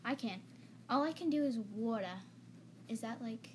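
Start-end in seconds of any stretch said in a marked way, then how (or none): 0.9-2.2 "water" said in an Italian New Jersey accent; attempted New Jersey accent on "water". Shown as a demonstration. Showing a friend the one word they can do, New Jersey accent. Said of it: "New Jersey accent".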